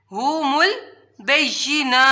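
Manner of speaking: ہم البینہ breathed out with no voice, slowly; whispered repeat. Shown as a demonstration. Teacher repeating ہم البینہ in a whisper.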